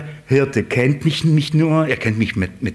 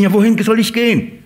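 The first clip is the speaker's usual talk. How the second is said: higher, quick, lost little question; confused sheep voice; 9 semitones higher, 3 dB louder, faster than usual. Acted. Sheep lost, asking where to go, higher and quick. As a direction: ask like a bewildered sheep.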